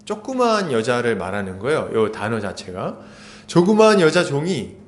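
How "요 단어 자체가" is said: usual speaking voice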